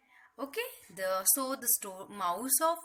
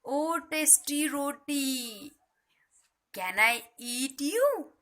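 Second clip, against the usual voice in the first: slow whisper turning into a coaxing call; hushed, sly mouse call; 5 semitones higher, 4 dB louder, slower than usual. Acted. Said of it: "He calls out".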